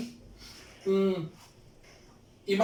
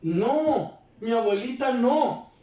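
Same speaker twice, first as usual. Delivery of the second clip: crying; 3 semitones higher, slower than usual. Shown as a demonstration. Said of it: "diga llorando".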